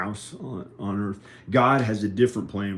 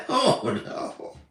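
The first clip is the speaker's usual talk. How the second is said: high exclamation. Real, not acted. Alone, exclaims high to himself.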